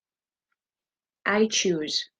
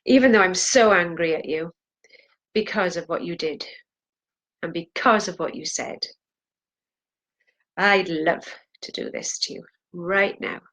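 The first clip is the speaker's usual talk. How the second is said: acted anger. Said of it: "I wanna hear in your voice".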